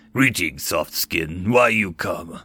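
a menacing Orkin greeting; lightly voiced brute warrior; low Orkin growl.

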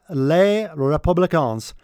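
Les Républicains in a French accent. Shown as a demonstration. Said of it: "that's my French accent".

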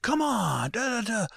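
high, pleading retold voice; squeaky imitation of a customer begging; mock pleading.

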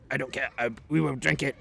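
lightly imitated dismissive Russian; stereotypical Russian accent. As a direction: brush it off with a put-on Russian accent. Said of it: "stereotypically Russian guy".

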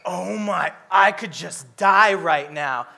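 mock despair, slow on die right now; a touch of melodrama; mock dramatic Jonah. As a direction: ham up the sulking neighbor. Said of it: "He's like".

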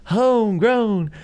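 high, slow showman's reveal; contest announcer. Retold or imitated. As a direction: draw each word out toward the big name.

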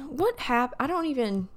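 talking through a burp; words pushed out with a burp. Real, not acted. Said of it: "I had to burp".

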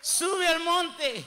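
drawn-out preaching shout; slow shouted command. Acted. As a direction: call it out slowly. God commands climbing the mountain.

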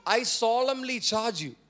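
slow, deliberate solemn charge; solemn, unfiltered charge. Retold or imitated. Paul charging Timothy without any filters, solemnly. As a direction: deliver it as a firm, measured charge. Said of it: "Without any filters".

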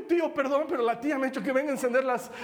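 high, hurried mock-flustered excuse; acted shaken apology. Nephew explaining himself to startled uncle, flustered. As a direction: apologise while playing rattled after a scare. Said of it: "respiraba así medio muerto".

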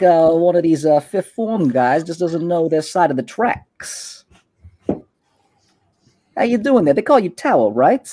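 a hint of a swaggering street boss; smug gang boss. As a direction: Kalen sizing up a rival in his turf. GM voices gang boss Kalen.

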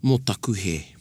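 mō taku he said as a sincerely sorry apology; sincere apology intonation. Shown as a demonstration. Teaching listeners how a sincere apology sounds, sincere. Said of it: "if I was to add the, uh, yeah, intonation".

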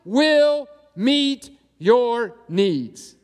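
slow, deliberate promise from God, a touch of a divine voice; lightly voiced God making a firm vow; voicing God's promise. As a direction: lay each word down slowly as God. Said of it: "God says this".

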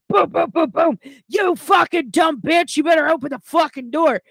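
mock a drunk pounding on the door; retelling the drunk guy's yelling at the door; imitating drunk yelling. Retold drunk banging and yelling.

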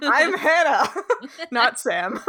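giggling through the words; can barely get it out laughing. Real, not acted. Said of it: "that name was funniest for how funny you found it".

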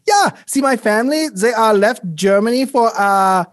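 a lightly put-on German accent, badly disguised; fake German accent. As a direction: pretend to be a different doctor. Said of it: "Okay, Kohler. Very funny".

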